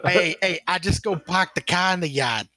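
a light mock Boston accent. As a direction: play up a Boston guy, lightly. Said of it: "imagine Zero with a Boston accent".

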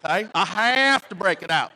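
put-on Southern accent. Pastor defending his habit to friends, playful Southern accent. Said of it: "doing that Southern accent".

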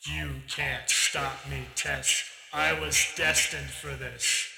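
slow, gloating villain retake; villain taunt. Acted. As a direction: draw out the threat, sure of his destiny. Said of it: "he says".

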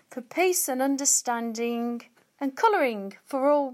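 reading a Christmas poem aloud; poem recitation. Shown as a demonstration. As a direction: recite it like a rhyming verse. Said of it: "I've got a little poem".

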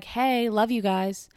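slow, put-on gushing voice; lightly voiced adoring fan; mock caller gushing. Vlogger imitating Cheryl calling in to gush, slow put-on voice. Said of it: "just be like".

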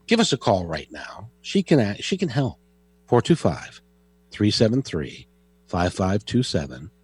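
mild on-air commercial voice; ad read. Acted. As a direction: sell the call-in line like a radio spot. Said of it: "is that a good enough commercial for you".

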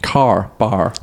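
Car and bar with a lighter final R; car bar toned down; milder R in car bar. Shown as a demonstration. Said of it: "That was better".

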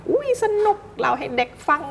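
very high, hammed-up storyteller thrill; mock-excited, high-pitched kids' storytelling; exaggerated excitement. Shown as a demonstration. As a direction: gush as if telling children a story. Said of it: "เราไม่ต้องตื่นเต้น".

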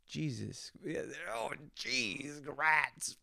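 lightly voiced dorky dad, mild exclamations; corny dad voice. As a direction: play a goofy dad swearing clean, in a lightly put-on voice. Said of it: "I sound like a dad".

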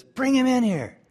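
high, loud royal order; commanding king. Retold or imitated. King to servant, a loud high royal command.

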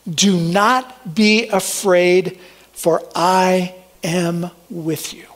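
slow, solemn reading of God's words; scripture reading. Acted. Pastor reading Isaiah's promise to congregation, slow and solemn. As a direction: read each promise slowly and deliberately.

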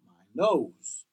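my nose, nose stressed and falling; announcing the word. Shown as a demonstration. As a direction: call out my nose to the class. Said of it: "Number three".

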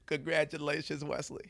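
put-on Trump accent drifting into Bill Clinton; muddled presidential impression in a Trump-Clinton accent. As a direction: do a soft-ending Trump accent with some Clinton. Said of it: "A Bill Clinton Trump accent".

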